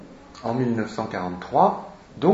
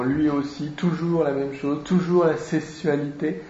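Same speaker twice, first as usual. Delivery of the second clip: higher-pitched, lightly acted whine; mock moan of weary complaint; 4 semitones higher than usual. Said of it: "qu'il dit en gémissant".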